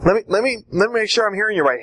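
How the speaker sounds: rising, disbelieving restatement; incredulous. Shown as a demonstration. Debate coach acting out shocked disbelief at the opponent. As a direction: spell it out in mock disbelief. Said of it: "You're gonna say something like".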